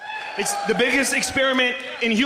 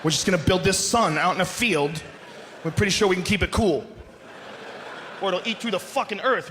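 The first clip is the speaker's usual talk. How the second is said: lightly voiced careless engineer; 4 semitones lower than usual.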